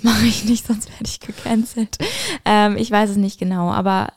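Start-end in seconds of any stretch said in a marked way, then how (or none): 0.0-2.0 conspiratorial whisper. Real, not acted. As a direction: hush it like a secret aside. Hushed aside about being cancelled.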